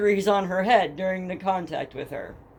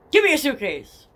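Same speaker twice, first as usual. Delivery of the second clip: mock robber in a thick Spanish accent, a bit louder; 5 semitones higher, 4 dB louder than usual. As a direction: redo the demand with a heavy Spanish accent. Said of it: "with a really thick Spanish accent".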